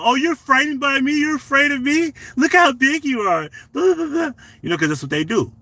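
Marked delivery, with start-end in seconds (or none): 0.0-4.3 high, taunting voice of the girlfriend, mocking him; a high mocking imitation of his girlfriend on camera. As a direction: sneer it in her high voice. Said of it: "So when the camera came on".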